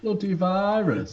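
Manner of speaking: hammed-up Brummie, stretched out; bad Birmingham accent. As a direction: echo it in a drawn-out fake Birmingham accent. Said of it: "that was a terrible Birmingham accent".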